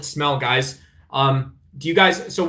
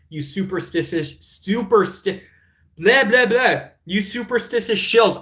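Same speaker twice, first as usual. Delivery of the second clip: flustered exasperated outburst; 5 semitones higher than usual. Real, not acted. Ranting at chat, so worked up he stumbles. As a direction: sputter with rage at them. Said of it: "I can't even talk".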